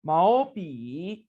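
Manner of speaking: teacher demo of 毛笔; careful Mandarin model. Shown as a demonstration. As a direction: model 毛笔 for learners. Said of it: "इसकी practice करेंगे".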